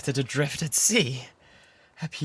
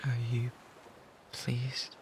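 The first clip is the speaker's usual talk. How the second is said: shy whisper; 8 dB quieter, slower than usual. Acted.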